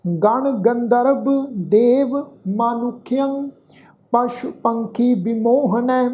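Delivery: slow, measured chanting of a sacred verse; scripture recitation. Acted. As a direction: recite each phrase slowly with long pauses. Teacher recites the shloka.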